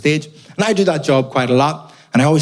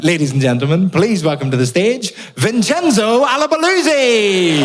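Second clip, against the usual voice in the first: compere voice; 6 semitones higher than usual. Retold or imitated. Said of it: "One time a guy went".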